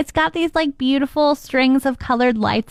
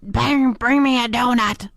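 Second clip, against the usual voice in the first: Homer impression.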